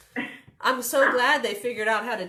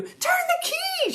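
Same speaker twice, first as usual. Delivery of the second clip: high, slow, drawn-out yell; frantic storybook order; urgent shout; 4 dB louder, slower than usual. A narrator's reading. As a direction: stretch the shouted command. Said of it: "shouted Minnie".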